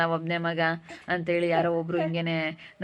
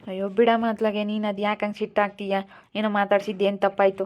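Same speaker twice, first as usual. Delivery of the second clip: higher, louder exasperation; exasperated son; 3 semitones higher, 4 dB louder than usual. Acted. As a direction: push back at your mother. Son argues with mother.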